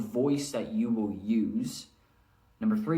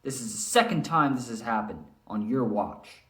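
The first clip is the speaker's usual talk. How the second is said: mild stern demo. Shown as a demonstration. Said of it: "Maybe a character is angry or he's stern".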